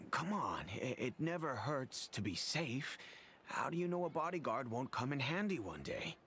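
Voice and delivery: a hint of breezy coaxing; cheery Kusela. Old man recalls Kusela coaxing him, mildly cheery. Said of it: "his cheery disposition".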